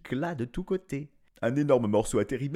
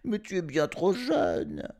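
higher pleading objection; worried protest; 9 semitones higher than usual. A narrator's reading. Mother and brothers objecting, worried. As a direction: protest he's far too young. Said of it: "s'exclamèrent ses frères et sa mère".

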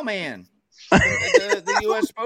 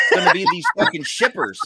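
laughing. Real, not acted. Laughing rant.

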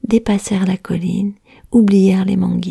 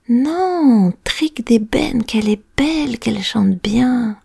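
higher, marvelling voice; delighted exclamation; 4 semitones higher than usual. Acted. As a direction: marvel at the singing stick. Charcoal makers admire the stick.

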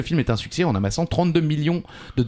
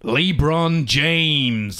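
slow dramatic reveal; much slower than usual. Acted.

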